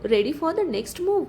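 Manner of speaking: drawn out slowly, a smug villain teasing; villain slowly taunts the office over a video call; slow taunting challenge. Acted. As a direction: stretch each word like a taunt. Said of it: "तो हसत म्हणतो".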